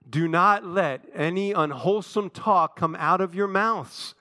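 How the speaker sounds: slow, measured group recitation of "Do not let any unwholesome talk"; recited together. Shown as a demonstration. Preacher leading church through the verse together, slow recitation. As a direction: draw out "Do not let any unwholesome talk come out of your mouths" for all to join. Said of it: "Let's say it together".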